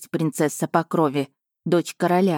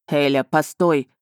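call after her; 3 semitones lower, slower than usual. A narrator's reading. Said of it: "крикнул мне вслед Эйден".

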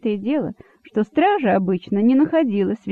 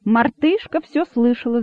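plain reading voice

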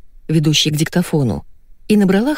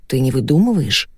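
worried; 3 semitones lower than usual. Acted. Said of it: "с тревогой спросил Константин".

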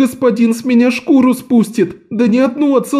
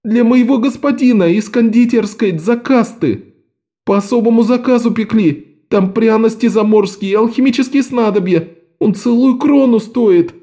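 much higher, tearful whimper; whining boy; 10 semitones higher than usual. A narrator's reading. Lok tearfully explains the cake's price to the men. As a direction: plead pitifully.

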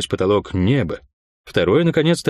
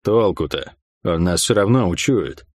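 hopeless; 5 semitones lower than usual. Acted. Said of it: "с какой-то безнадёжной тоской".

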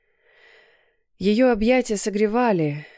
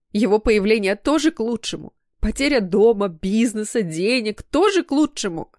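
bitter challenge; 3 semitones higher, 4 dB louder than usual. Acted. Daughter bitterly challenges her mother.

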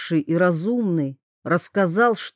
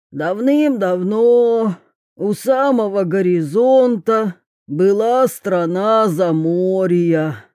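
monotone voice. Acted. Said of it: "монотонным голосом рассказывал Вью".

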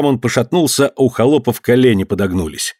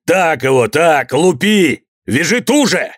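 злорадный отец; 5 semitones higher, slower than usual. A narrator's reading. Отец подзадоривает казаков.

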